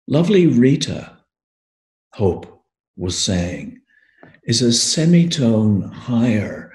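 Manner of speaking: measured poem reading with lifted phrase openings; poetry reading. Acted. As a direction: recite it deliberately, pausing between the lines. Reads his own poem.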